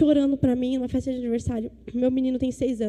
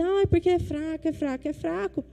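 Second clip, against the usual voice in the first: mocking youth excuse; 3 semitones higher, 5 dB quieter than usual. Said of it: "Aí os jovenzinhos dizem".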